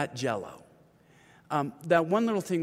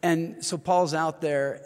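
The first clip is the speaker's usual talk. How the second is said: ordinary delivery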